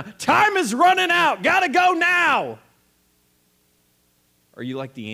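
high, loud hard-sell yell; infomercial shout. Acted. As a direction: scream the ad pitch. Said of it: "Are you infomercial guy or girl?".

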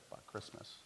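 hushed, bitter under the breath; bitter whisper. Retold or imitated. Outreach worker retelling a homeless man's bitter whisper. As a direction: spit it out low and bitter.

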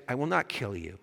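lightly voiced calm angel; steady, measured denial. Angel answering the panicked ghost, calm and firm. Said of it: "And the angel says".

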